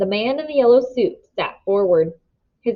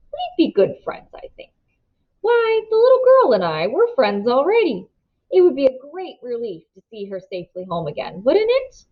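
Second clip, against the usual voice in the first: lightly voiced sly stranger, all politeness; smooth, oily gentleman; 4 semitones higher than usual. The man in the yellow suit telling the Fosters, oily and polite. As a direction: purr the news like a helpful stranger.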